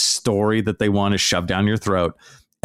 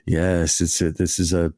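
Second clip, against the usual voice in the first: mock salesman pitch; 2 semitones lower than usual. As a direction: parody a huckster's sales message. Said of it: "they have this guy come out and".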